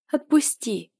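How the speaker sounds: whiny plea. A narrator's reading. Heroine begging her lover to let go, tearful whine. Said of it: "попросила я плаксиво".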